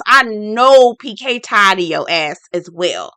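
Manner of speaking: exasperated, drawn-out complaint; tired husband. Retold or imitated. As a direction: sigh out we are tired. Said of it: "he was like".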